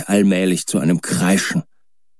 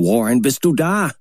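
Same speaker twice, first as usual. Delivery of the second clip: a milder, restrained call into the receiver; 6 semitones higher than usual. A narrator's reading. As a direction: call down once more, less frantic. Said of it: "Wieder rief ich hinunter".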